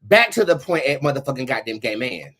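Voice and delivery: usual speaking voice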